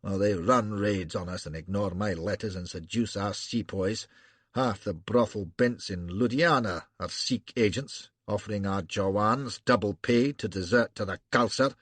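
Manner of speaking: high arrogant Scottish burr, complaining; indignant Scots officer grumbling. Acted. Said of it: "high, arrogant Scotch burr".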